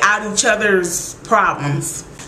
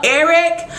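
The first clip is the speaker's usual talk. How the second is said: exasperated; 7 semitones higher than usual. Retold or imitated. Exasperated plea at Eric.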